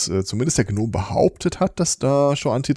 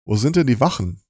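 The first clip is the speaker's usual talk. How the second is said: nasal guard asking for the watch; 2 semitones higher than usual. Acted. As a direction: talk through the nose, slightly raised. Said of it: "so im nasalen Tonfall".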